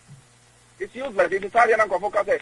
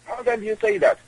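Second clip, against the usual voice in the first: much higher, outraged disbelief; incredulous. Shown as a demonstration. Guest repeating the question to the host, in shocked high disbelief. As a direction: repeat it as if you can't believe it.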